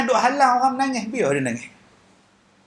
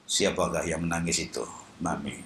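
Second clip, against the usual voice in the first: blind man voice; 9 dB quieter than usual. Retold or imitated. Blind Kasim voiced in story.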